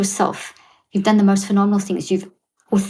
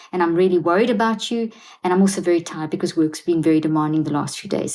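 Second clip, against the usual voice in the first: sincere apology. Shown as a demonstration. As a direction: own your feelings gently and honestly. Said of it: "I'm gonna demonstrate it first".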